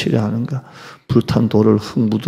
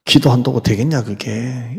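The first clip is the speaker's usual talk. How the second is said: scornful taunt. Retold or imitated. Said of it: "이렇게 합니다".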